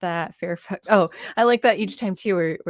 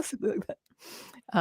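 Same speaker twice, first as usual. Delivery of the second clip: laughing; 4 semitones higher, 8 dB quieter, slower than usual. Real, not acted. Laughing aside.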